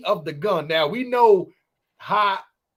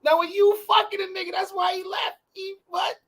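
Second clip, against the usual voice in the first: mock shock; 12 semitones higher than usual. Mock outrage in impression.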